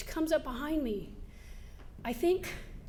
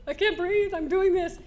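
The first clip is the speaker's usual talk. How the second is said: breathless plea; 5 semitones higher, 6 dB louder than usual. Retold or imitated. Retold panting plea to coach.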